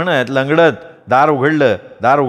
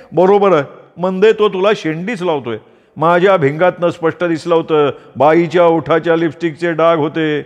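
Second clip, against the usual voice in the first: higher scolding aunt voice; gossiping aunt; 4 semitones higher than usual. Acted. Aunt demanding the affair be exposed, higher scolding voice. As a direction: stir up trouble like a nosy aunt.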